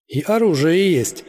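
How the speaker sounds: boasting. A narrator's reading. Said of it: "похвастался Герман".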